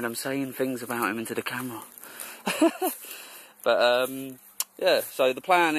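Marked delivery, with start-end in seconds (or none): 2.1-3.3 breathy laugh. Real, not acted. Laughing at friend.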